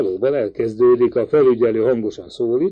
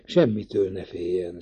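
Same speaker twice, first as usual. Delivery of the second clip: soft, low, hushed reassurance; whispered reassurance; 5 semitones lower, 6 dB quieter than usual. A narrator's reading. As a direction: murmur it low to soothe her. (halk, suttogó megnyugtatás)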